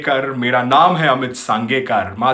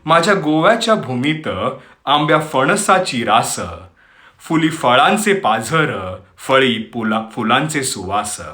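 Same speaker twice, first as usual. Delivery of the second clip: poem recitation; much faster than usual. Acted. Host recites Marathi poem on Goa to listeners, poetic recitation. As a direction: recite in measured phrases, pausing between lines.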